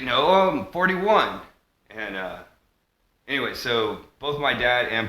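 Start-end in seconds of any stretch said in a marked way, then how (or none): 0.0-1.4 quoting Walter White. Retold or imitated. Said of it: "And he's like".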